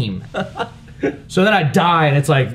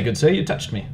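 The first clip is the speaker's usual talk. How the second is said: polite English; 4 dB quieter than usual. Retold or imitated. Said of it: "Be very polite".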